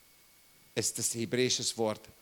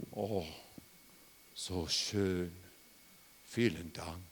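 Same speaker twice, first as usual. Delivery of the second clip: flat thanks; 6 semitones lower, 4 dB quieter, slower than usual. Pretend. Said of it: "Willst du sagen".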